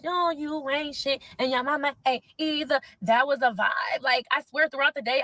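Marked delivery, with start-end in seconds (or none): 0.0-2.8 a slow, drawn-out quote of the lyric; quoting the diss lyric. Retold or imitated. Quoting the rapper's diss of her mom, slow and drawn out. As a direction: lay the line out slow like the track. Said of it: "your diss track about how".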